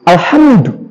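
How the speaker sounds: "Alhamdulillah" with a stressed, lengthened "ham" into the dal; strongly articulated "Alhamdulillah"; emphasized Arabic articulation. Shown as a demonstration. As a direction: lean firmly on "ham-du" in "Alhamdulillah". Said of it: "benar-benar ditekankan di daerah situnya".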